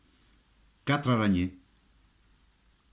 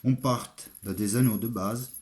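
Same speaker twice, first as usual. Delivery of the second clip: French with an Italian accent; Italian speaker talking French. Real, not acted. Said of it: "je suis un armurier italien".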